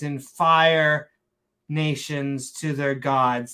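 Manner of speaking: very slow, hammed-up Shakespearean proclamation; mock Shakespearean accent. Condemning abominations to the Lord, hammy mock Shakespearean accent. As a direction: drag out each word in fake Shakespearean. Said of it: "saying it in a Shakespearean accent".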